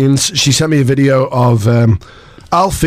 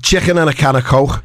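put-on trying a Scouse accent. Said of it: "That's not bad".

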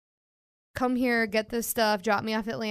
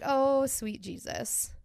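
slow, exasperated sigh of words; mock exasperation; 3 semitones higher, 3 dB quieter, much slower than usual. Reacting to a naive girl, slow exasperated disbelief. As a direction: plead to heaven in slow disbelief. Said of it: "I was like".

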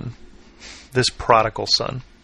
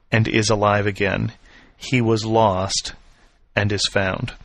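gentle father. Acted. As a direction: ease the son's anger, slowing down. Father gently answers resentful son.

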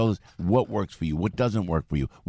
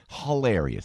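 hilarious in a thick Jersey accent, huh-LAIR-ee-us. Shown as a demonstration. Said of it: "there's my Jersey accent".

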